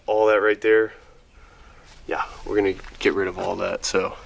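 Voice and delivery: talking with a bitten tongue; slightly off speech from a sore tongue; just bit tongue. Real, not acted. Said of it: "Sorry if I'm talking weird, 'cause I bit my tongue".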